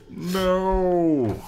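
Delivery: high loud shriek of No. Acted. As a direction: scream it in helpless panic. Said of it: "Andy shrieked".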